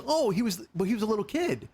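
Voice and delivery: high-pitched retold surprise; imitated sudden realisation. Husband imitating wife recognising the actor, high mock surprise. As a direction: mimic someone finally catching on, pitched well up.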